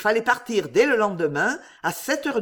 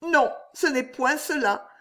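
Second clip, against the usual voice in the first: tender pity; 7 semitones higher than usual. A narrator's reading. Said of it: "avec la plus tendre pitié".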